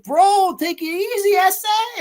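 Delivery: high, loud mock voice; hammed-up high-pitched smoker buddy; imitated Mexican smoker. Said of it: "smoking with these Mexican gentlemen".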